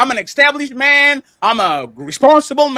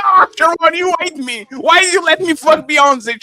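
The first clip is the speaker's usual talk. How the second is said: higher, hammed-up lament; mock resentment; 3 semitones higher than usual. Sarcastically blaming his friend for the hookup, mock resentful. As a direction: whine it like a pretend wronged man. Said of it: "I will resent Sharon".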